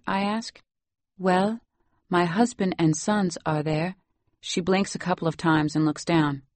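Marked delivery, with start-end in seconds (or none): 1.2-3.9 put-on lightly Salvadoran-accented English. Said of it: "You have such a nice accent".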